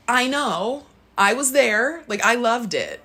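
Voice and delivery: gently voiced God. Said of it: "I felt God be like".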